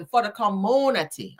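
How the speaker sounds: "community" said as com-MOO-nity; Tisha voice. Acted. Host repeating her Tisha bit, "community" with a long moo. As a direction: round out the middle of "community" into a moo. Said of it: "in my Tisha voice".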